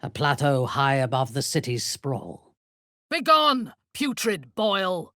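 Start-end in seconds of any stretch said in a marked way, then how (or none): 3.1-5.1 contemptuous shout. Acted. A fighter taunting an enemy, shouting. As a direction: spit the insult at the foe.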